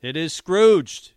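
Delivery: host confirms caller's answer with delight; triumphant confirm. Real, not acted. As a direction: draw it out like announcing a winner.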